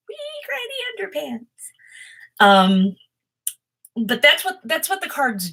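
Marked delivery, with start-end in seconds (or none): 0.1-1.4 tiny, soft, very high squeak; soft falsetto, sliding down at the end; silly high voice. Pretend. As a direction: squeak it out softly and playfully. Silly phrase put on mid-explanation.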